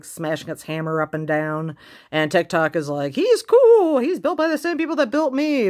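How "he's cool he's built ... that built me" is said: high, put-on character voice, loud at the start; high-pitched, playful impression of a character; mock mechanical-man quote. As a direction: pipe it up as a keen character. Acting out Tick-Tock's line.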